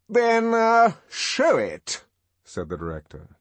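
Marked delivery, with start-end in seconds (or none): 0.1-2.1 loud, majestic demand, slightly thrown. A narrator's reading. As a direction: command it grandly despite being taken aback. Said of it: "but still majestically".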